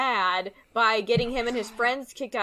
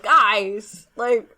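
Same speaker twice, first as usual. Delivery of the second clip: exasperated; 6 dB louder, much slower than usual. Retold or imitated. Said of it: "I'm like".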